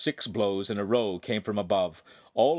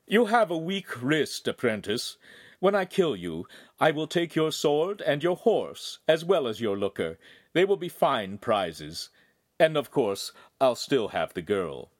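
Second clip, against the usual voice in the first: taunting villain Feltrino; 4 semitones higher than usual. Acted.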